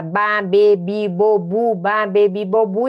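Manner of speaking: even, rhythmic syllable drill; rote syllable recital. Shown as a demonstration. Learner memorising syllable families, rote chanting. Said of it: "Porque a gente decora".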